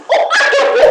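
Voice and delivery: very high, sudden retold exclamation; instant eager answer. Caller answers the request for a motorbike at once, instant eager exclamation. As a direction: jump in with a high-pitched yes. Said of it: "Langsung gitu saya".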